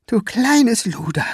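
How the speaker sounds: high, slow villain venom; hissed. A narrator's reading. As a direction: spit it at her slowly. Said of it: "zischte er".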